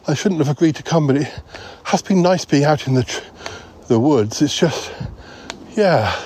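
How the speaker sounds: lightly voiced anxious rambler, mildly out of breath; Paul, flustered. Comic character voice in a sketch.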